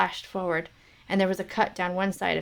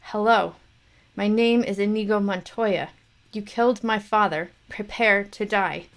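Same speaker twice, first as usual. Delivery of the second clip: louder, firmer vow; rising challenge; 5 dB louder than usual. Acted. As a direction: build the threat. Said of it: "repeated challenge, growing".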